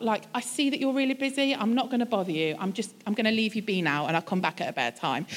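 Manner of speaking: mildly gentle, winding down low; imagined considerate reply. Pretend. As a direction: voice a patient, accommodating answer. Imagined kind reply of Jesus.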